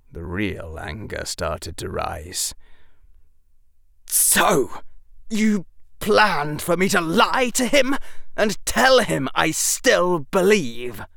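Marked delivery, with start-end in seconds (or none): 4.1-11.0 shaking voice. Acted. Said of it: "voice shaking".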